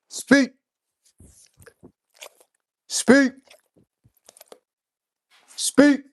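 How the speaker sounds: high, loud one-word command to the dog. Real, not acted. Owner coaxing his dog Boss to bark, high and loud commands.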